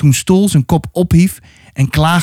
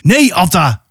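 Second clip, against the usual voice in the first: mild warning call; 2 semitones higher than usual. Acted. The leader tries to stop Atta, mildly calling out. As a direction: call it out with understated force. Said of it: "hoorde ze hun leider roepen".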